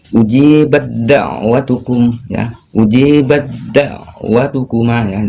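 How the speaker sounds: ujibat da'watukum read slowly, t merged into the d; unhurried recitation of ujibat da'watukum; slow recitation demo. Shown as a demonstration. Teacher reading the verse example to students. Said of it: "contoh bacanya".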